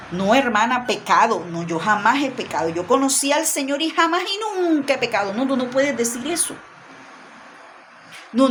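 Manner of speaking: lightly voiced smug super-Christian sister; mock ultra Christian. Mocking the ultra Christian who tells a sister she never tires, smug. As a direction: brush it off like someone who is never weak. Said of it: "la súper extremadamente ultra cristiana".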